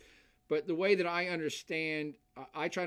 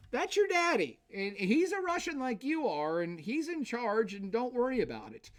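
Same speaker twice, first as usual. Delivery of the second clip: a hint of a lordly father figure, raised pitch; paternal lord; 7 semitones higher than usual. Lecturer voicing a lord reassuring his peasants, mock paternal. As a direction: reassure the peasants like a father who knows best.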